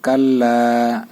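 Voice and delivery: কাল্লা with a long held double ল, slowly; doubled lam. Shown as a demonstration. Teacher modelling the doubled lam for students. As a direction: lean on the ল in কাল্লা. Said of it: "লাম আলিফ জবর লা".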